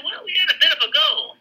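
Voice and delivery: lightly imitating a British colonel shrugging off heavy losses; mock British colonel. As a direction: play the colonel's understatement lightly. Quoting the understated British colonel.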